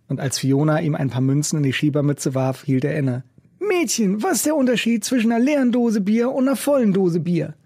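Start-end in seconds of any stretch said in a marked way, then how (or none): 3.6-7.5 busker playing quiz host; like a quizmaster. A narrator's reading. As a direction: pose the riddle like a game show host. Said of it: "fragte er wie ein Quizmaster".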